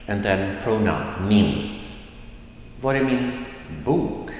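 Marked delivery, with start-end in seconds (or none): 2.8-4.3 "var är min" short and unstressed, emphasis on "bok"; stress at the end. Shown as a demonstration. Teacher showing where emphasis comes, stress landing on "bok". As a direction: save the emphasis for the final "bok". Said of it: "the emphasis comes at the end".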